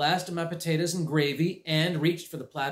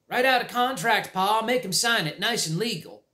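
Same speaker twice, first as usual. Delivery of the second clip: snickering; 8 semitones higher, 3 dB louder than usual. Acted. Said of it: "Ned snickered".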